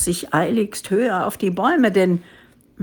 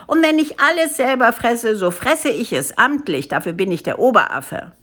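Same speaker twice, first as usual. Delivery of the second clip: lightly voiced pompous official; monkey boss asserting his rank; blustering head ape; 3 semitones higher than usual. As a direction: start high and indignant, settle into self-satisfaction.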